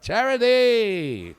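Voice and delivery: slow, high laughing exclamation; laughing cry. Acted. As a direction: call it out with a laugh. Comic shout.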